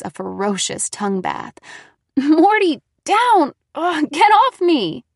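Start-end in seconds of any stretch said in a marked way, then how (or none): 2.2-5.0 high, loud laughing protest. A narrator's reading. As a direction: laugh while pushing the dog away. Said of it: "I cried, laughing".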